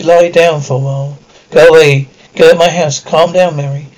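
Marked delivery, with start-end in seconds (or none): 1.5-3.0 loud, sharp dismissal; angry shout. Acted. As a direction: shout it out at her. Girl orders woman out.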